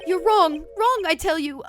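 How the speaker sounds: high, loud, frantic protest; Ron protesting. Acted. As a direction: insist desperately he is wrong.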